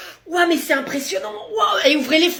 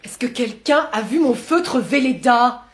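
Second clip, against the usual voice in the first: fretting teacher; 4 semitones lower, slower than usual. Acted. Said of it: "celui qui perd toutes ses affaires".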